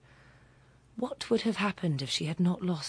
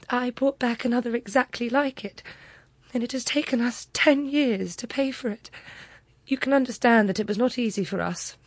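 proud Mathilde; 7 semitones higher, 3 dB louder than usual. Acted.

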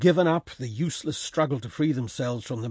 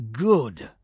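snarled; 4 dB louder than usual. Acted. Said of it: "snarled Georg".

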